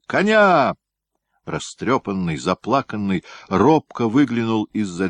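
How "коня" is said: high, loud command; barked order. Acted. Gryaznoy shouts at the groom for his horse. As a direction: demand the horse at once.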